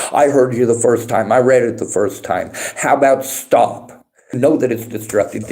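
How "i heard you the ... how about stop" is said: fed up, pressing each word at chat; exasperated. Real, not acted. Streamer snapping at chat to stop repeating, exasperated. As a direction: scold the chat for repeating itself.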